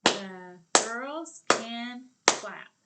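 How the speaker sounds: each word called loud and slow; slow loud clapping chant. Shown as a demonstration. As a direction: clap out every word loudly.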